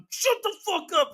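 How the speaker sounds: high, strained mock yell; acted high-pitched rage at a machine; exasperated outburst. Acts out cutting off the bot.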